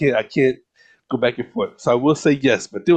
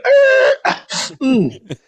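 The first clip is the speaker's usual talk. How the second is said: dogs refusing. Retold or imitated. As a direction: voice the lazy dogs.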